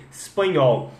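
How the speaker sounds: "espanhol" starting on S, "spanhol"; espanhol without E. Shown as a demonstration. Teacher training learners, "espanhol" with no E. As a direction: leave off the first E of "espanhol". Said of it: "tirar o E".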